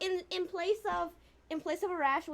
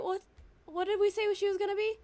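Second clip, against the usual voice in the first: ordinary talk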